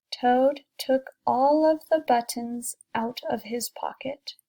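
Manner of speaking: storybook read aloud to a class; teacher reading a picture book to kids, gentle storytelling; reading to children. A narrator's reading.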